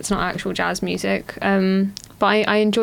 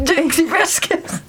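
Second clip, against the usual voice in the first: high, wheezing take on the name; like an asthma attack on the words; wheezy Dixie Biscuits impression; 9 semitones higher than usual. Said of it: "sound like you're having an asthma attack".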